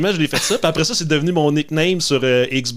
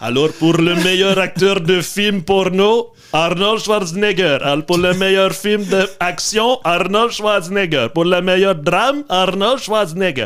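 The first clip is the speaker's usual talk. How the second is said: put-on Russian accent with higher pitch; 3 semitones higher than usual. Pretending to announce film awards that one Austrian actor keeps winning, use a put-on Russian accent. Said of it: "Pourquoi t'as un accent russe?".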